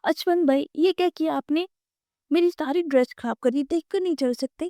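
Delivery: high-pitched indignant complaint; a girl blaming him, high and cross; upset outburst pitched high; angry scolding. A narrator's reading. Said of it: "وہ غصہ ہوئی".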